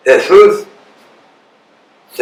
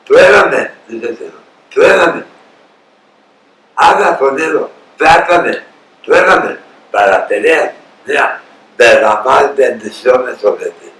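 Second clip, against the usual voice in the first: proclaiming God's voice; 3 semitones higher than usual. Acted. Preacher voices the Lord inviting the people, booming challenge. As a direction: call out the dare of heaven.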